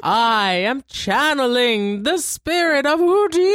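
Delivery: slow, high, loud mystic channeling; seance medium. Retold or imitated. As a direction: intone it like a fake medium in a trance. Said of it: "she says it exactly like that".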